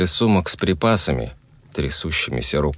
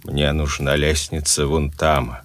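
commanding and cold. Acted. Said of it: "властными и холодными".

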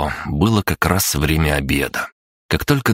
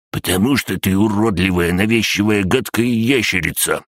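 higher-pitched spiteful insults; gloating; 5 semitones higher than usual. A narrator's reading. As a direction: hurl each insult with malicious relish. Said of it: "злорадно прошипел". (злорадно, ехидно)

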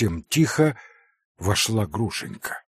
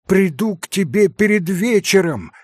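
higher, louder call after someone; hurried call, higher and louder; 9 semitones higher, 6 dB louder than usual. Acted. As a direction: shout it over your shoulder. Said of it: "крикнул Алёша".

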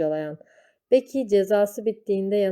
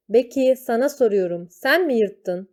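higher, louder stern teacher demand; stern interrogation; 4 semitones higher, 5 dB louder than usual. Acted. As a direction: corner the girl with a raised voice. Teacher repeats his demand.

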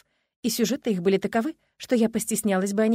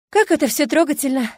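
sniffling; 7 semitones higher, 8 dB louder than usual. A narrator's reading. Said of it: "неожиданно всхлипнул Эдмонд".

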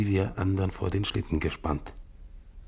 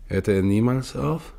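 louder, higher desperate question; anguished cry; 5 semitones higher, 7 dB louder than usual. Acted. Exhausted explorer crying out against the endless storm.

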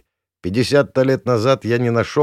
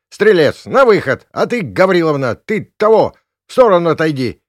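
much higher and loud commands; barked orders; 9 semitones higher, 9 dB louder than usual. Acted. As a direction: shout orders like a flustered cop. Policeman ordering people about. (громкие приказы)

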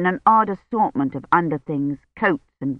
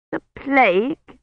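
annoyed; 7 semitones higher, slower than usual. A narrator's reading. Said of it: "she said, looking annoyed".

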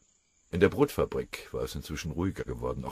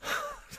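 broad laugh; 5 dB quieter than usual. A narrator's reading. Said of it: "Der andere lachte breit".

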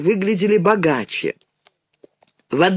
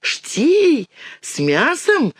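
put-on high, surprised child's question; eager girl asking, high; 9 semitones higher, much slower than usual. A narrator's reading. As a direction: pipe up hopefully, pitched high. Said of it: "спросила Динка".

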